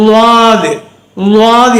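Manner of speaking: லாது as Arabic Daad, tongue to one side; long, heavy 'Lwaadh' for லாது. Shown as a demonstration. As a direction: press the tongue sideways on the first sound of லாது. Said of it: "நாக்க சோத்துக்கை பக்கம் வச்சு".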